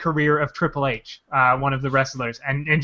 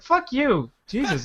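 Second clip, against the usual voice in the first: exasperated brush-off; 7 semitones higher, 5 dB quieter, slower than usual. Retold or imitated. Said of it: "It's like".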